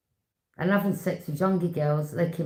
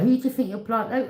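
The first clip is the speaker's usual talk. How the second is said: mock indignant challenge; 5 semitones higher, 4 dB louder than usual. Big woman telling man off.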